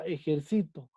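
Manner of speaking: "ejercito" stressed on CI, falling on the last syllable; stress on penultimate syllable. Shown as a demonstration. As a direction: lean on CI in "ejercito". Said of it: "La sílaba tónica está en sí".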